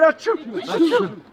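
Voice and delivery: slow, giggling mock sneeze; laughing fake sneeze.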